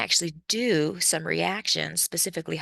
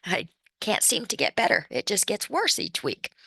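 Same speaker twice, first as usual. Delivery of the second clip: hoarse, congested voice from illness; sick voice. Real, not acted. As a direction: speak through a lingering cold. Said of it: "I know I sound so horrible".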